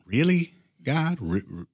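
a believer questioning God, incredulous. Retold or imitated. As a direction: cry out in disbelief at God. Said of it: "was there ever".

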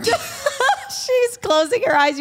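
high laughing squeal. Real, not acted. Laughing at friend's embarrassment.

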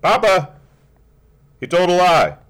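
put-on high, loud little girl crying out; a small girl blurting out in shock; child protesting to her papa; child's outcry. Child Bessie cries out.

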